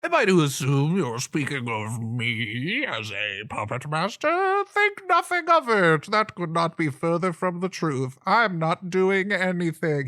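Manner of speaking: high, loud, swooping creature voice; hammed-up outraged sidekick; indignant frog-like aide. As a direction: protest far too much, pitch leaping wildly. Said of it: "the ribbit speaks up and says".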